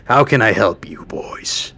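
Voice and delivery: lightly voiced leader, loud at first then easing off; amused camp leader. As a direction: play a leader frankly sizing up visitors. Game master voices camp leader.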